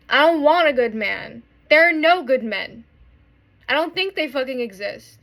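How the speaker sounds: from bitter muttering to a raw, real shout; building angry outburst. Real, not acted. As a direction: let the hurt boil over into a yell. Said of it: "And I'm like".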